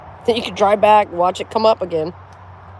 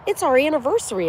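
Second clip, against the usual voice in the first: lightly imitated husband, higher pitch; mimicked husband; 6 semitones higher than usual. Quoting the creepy guy to show he's a pig, raised mimicking voice. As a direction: repeat his line in a raised mimicking voice. Repeats the man's quoted excuse.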